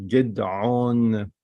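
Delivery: "Gidon" with a drawn-out O in the last syllable; O sound. Shown as a demonstration. Teacher showing how you say O, drawn-out O sound. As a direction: hold the O in "Gidon". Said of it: "you say O".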